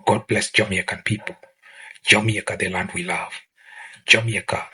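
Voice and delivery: fading to a near whisper; hushed blessing. Real, not acted. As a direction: say the blessing softly, dropping away to almost nothing. Solemn blessing over Jamaica.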